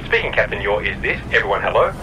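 words backwards. Acted. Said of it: "captain speaking backwards".

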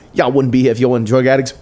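fast, heated imitation; retold ranting comeback; mock angry parting shot. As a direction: throw it back at the room in a rush.

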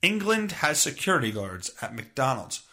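usual speaking voice

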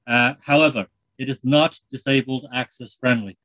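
put-on light Irish accent, chatty presenter; a lightly done Irish TV host; Terry Wogan. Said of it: "It's Terry Wogan here".

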